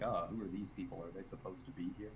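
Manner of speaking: lightly voiced bystanders' murmur; quick, soft aside, as if wondering about strangers; onlookers wondering. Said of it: "it seems more like".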